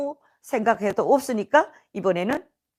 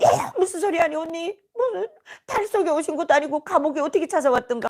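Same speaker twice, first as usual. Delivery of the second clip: raised-pitch incredulous retort; startled disbelief; 5 semitones higher than usual. Retold or imitated. Cellmates answering the youngest's dream claim, startled disbelief. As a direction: react as if astonished by nonsense. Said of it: "애들이 너무 놀라가지고".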